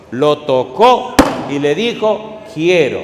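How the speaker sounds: loud and slow, with authority; loud solemn declaration; commanding Jesus. Retold or imitated. Preacher voices Jesus healing.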